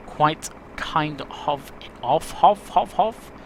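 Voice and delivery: stumbling, stuck repeating of; fumbled first take. Real, not acted. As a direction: trip over the words and stall on of. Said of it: "Try that again".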